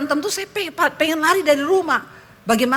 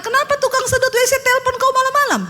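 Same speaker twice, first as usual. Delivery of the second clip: very high, fast interrogation; rapid-fire high-pitched mock accusation; suspicious wife questioning; 11 semitones higher, faster than usual. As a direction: imitate a wife demanding an explanation. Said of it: "Istrinya tanya".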